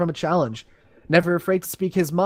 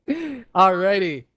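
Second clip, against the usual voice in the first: drawn out; 2 semitones higher, much slower than usual. Real, not acted. Drawn out after embarrassment.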